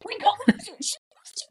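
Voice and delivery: whispered teasing aside. Real, not acted. Friend naming the whipsy stickers, whispered. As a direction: breathe it as a sly whisper.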